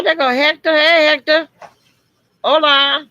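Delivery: light up and call out to a friend; excited high greeting. Real, not acted. Host sees Hector join the stream, greets him excitedly high and loud.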